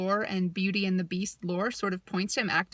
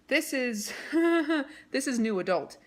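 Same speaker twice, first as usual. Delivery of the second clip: laughing; 5 semitones higher than usual. Real, not acted. Laughing at the racy book.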